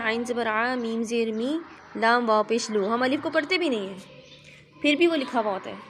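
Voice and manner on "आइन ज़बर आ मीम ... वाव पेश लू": आइन ज़बर आ spelt out in a steady teaching chant; spelling recitation. Shown as a demonstration. Teacher spelling अमीलू for the pupil, letter by letter. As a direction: chant each letter and its vowel mark in turn. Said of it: "तो हम इसको क्या पढ़ते हैं".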